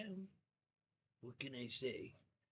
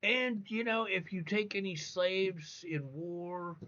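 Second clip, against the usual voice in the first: higher, lightly put-on preaching tone; mock preacher voice; 5 semitones higher than usual. Speaker mocking a prophet addressing Muslim men in a higher, lightly put-on voice, ending in a whisper. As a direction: parody a lawgiver handing out permissions. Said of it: "he, he said".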